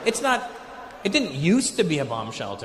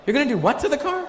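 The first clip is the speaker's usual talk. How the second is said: high-pitched mock disbelief; incredulous; 9 semitones higher than usual. Visitor hears they will bark the car, incredulous. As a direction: pitch it way up, baffled question.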